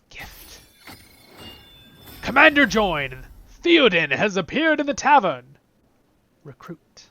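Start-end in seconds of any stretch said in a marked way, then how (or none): 2.2-5.4 announcer read. Real, not acted. Reading game announcement aloud.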